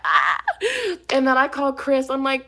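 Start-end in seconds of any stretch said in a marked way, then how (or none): 0.0-0.4 short mock scream, loud but low; retold scream. Woman retelling her fall in the dark parking lot, mock scream. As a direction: let out a brief re-enacted yell. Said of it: "I'm just screaming".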